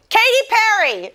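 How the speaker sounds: high-pitched attention-grabbing call; imitating child calling out. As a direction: call mom like an impatient little kid. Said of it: "the third time she'll go".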